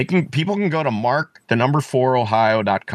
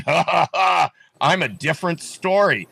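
mock smug laugh; 4 semitones higher than usual. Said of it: "he's smugly laughing".

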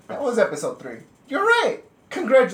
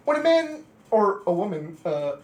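patronizing. Retold or imitated. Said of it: "they patronized you".

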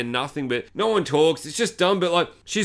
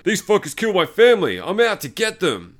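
put-on movie avenger's vow; mock vengeful hunter; 4 semitones higher, 3 dB louder than usual. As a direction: imitate a hero swearing revenge. Hunter vows revenge.

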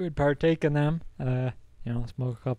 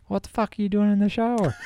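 much higher, voiced as the baffled friend; incredulous friend; 8 semitones higher than usual. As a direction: throw it at him in disbelief. Friend Colton finding him hiding.

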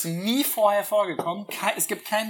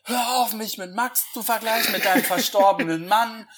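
hammed-up outburst, pitched up and loud; völlig durchgedreht; 5 semitones higher, 4 dB louder than usual. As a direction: act out a melodramatic lover losing it. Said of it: "Dann dreht er so völlig durch". (gespielt völlig ausrasten)

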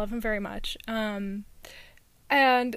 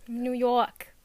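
attempted New York accent, dropped R; slower than usual. Shown as a demonstration. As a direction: introduce yourself like a New Yorker. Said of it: "now you messed up my New York".

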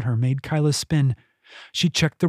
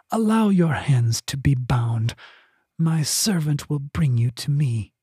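smooth eerie voice. Acted. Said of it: "The voice was smooth".

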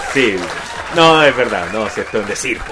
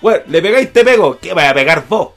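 radio drama voices; 2 semitones higher, 5 dB louder than usual. Acted. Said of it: "Qué buen radioteatro te pegaste".

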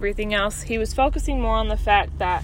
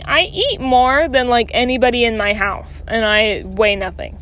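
exasperated; 6 dB louder than usual. Retold or imitated. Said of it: "And I'm sitting here going".

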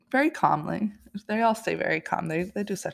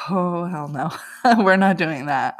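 laughing refusal; 7 dB louder than usual. Retold or imitated. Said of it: "I was like".

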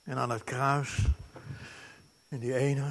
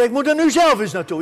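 determined exclamation; 9 semitones higher, 12 dB louder, faster than usual. Acted. Acted determined quote.

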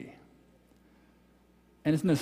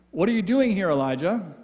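calling out; 2 semitones higher, 4 dB louder than usual. Acted. God's voice questions Elijah.

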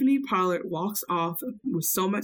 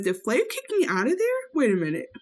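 New York voice; 6 semitones higher than usual. Retold or imitated. Voicing drunk distraught New York.

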